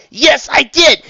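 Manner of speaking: high, loud contradiction; insistent retort. A narrator's reading. Raindrops insists to Trixie she is at fault, shouting. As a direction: fire it back in an argument. The two quarrel over blame.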